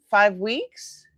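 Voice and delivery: mildly incredulous echo, rising at the end; replayed surprised question; retold disbelief. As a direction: query it as if misheard. Retelling her disbelieving question.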